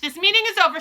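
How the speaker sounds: high, loud witch shout. Acted. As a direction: bark the meeting closed. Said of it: "she shouted".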